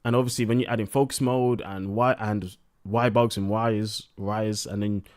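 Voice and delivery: tipsy, words running together. Real, not acted. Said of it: "I'm kind of drunk".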